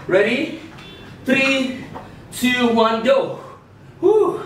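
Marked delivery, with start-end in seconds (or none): 4.0-4.4 excited whoop. Real, not acted. Cheer after exercise set.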